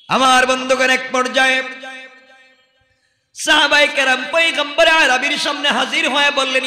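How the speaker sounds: ringing sermon cry, line ends held; impassioned preaching. Acted. Preacher telling how companions addressed the Prophet, impassioned. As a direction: call out the story to a congregation. Preacher retells at full force.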